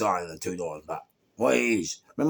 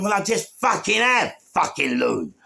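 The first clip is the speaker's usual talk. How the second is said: high, loud comeback; retold angry retort; 10 semitones higher, 5 dB louder than usual. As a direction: throw an indignant answer back at the bully. Acted retort to the bully.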